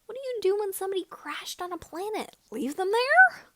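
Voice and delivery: rising high, loud indignation; indignant outburst. A narrator's reading. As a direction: build to an outraged squeak. Indignant about stranded pilots.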